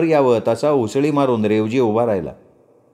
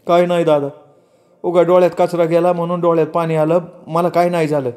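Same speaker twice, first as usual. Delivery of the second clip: put-on higher voice of a young man hiding tears; tearful Revji; 6 semitones higher than usual. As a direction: brush it off while choking back crying. Revji hides his tears. (रडू लपवत, भरल्या आवाजात बोलणारा रेवजी)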